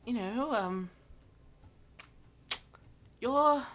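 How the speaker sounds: hesitant, searching for words, fading off; flustered Mira. Acted. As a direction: stumble through an awkward introduction.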